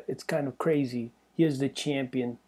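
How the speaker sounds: reading a fighter's quote with a light New York lilt; a hint of a Long Island tough guy; mild New York gangster read; New York accent. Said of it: "the way he talks is funny".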